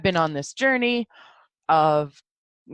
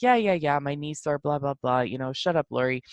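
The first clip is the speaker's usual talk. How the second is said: dismissive self-talk; 5 semitones lower than usual. Retold or imitated. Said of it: "it is an unkindness to be like".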